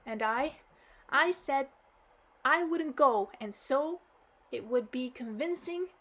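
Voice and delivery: acted child crying to granddad; blubbering girl. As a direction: blurt it out blubbering. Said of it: "all the while laminating".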